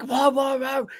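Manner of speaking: high imitated barks; quick mock barking; crazy dog barking. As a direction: bark like a frantic dog. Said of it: "he was barking like, like crazy".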